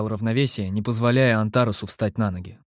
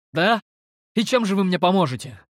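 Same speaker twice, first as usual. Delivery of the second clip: skeptical; 7 semitones higher than usual. A narrator's reading. Hero skeptical, squinting at figures.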